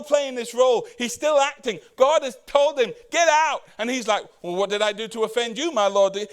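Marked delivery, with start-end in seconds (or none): 3.1-3.6 firm command. Retold or imitated. God ordering David away. 4.4-6.3 put-on offense. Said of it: "he puts on this front almost like".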